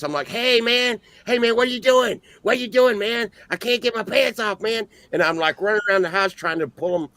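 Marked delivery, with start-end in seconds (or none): 0.3-4.9 much higher, agitated stoned voice; weird voice. Retold or imitated. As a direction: pester them in a high-pitched weird voice. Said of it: "in some weird voice".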